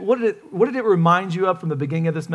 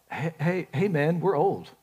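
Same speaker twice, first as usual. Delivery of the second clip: Zechariah; 6 dB quieter than usual. Acted. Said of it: "Zechariah is like".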